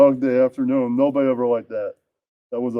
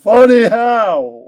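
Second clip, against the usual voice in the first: mobster voice; 7 semitones higher, 7 dB louder, slower than usual. Acted. Goodfellas quote as mobster.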